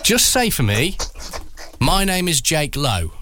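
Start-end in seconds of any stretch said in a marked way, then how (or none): 1.8-3.1 unhurried, carefully spaced introduction; measured demo delivery; slow and nice. Shown as a demonstration. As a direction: say the name slowly, as a model to copy. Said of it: "Say it slowly, say it nice".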